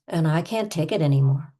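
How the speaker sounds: emphatic, played-up frustration; over-the-top exasperation. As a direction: push it out, fed up. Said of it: "we're gonna go over the top".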